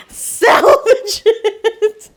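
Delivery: slow, laughing repeat; laughing drawn-out. Real, not acted. Repeating the rescue call, drawn out with laughter. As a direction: stretch it out through laughter.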